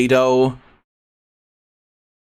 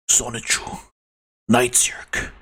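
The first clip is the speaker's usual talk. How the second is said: dark whisper behind you. Acted. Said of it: "more of a Shadow voice".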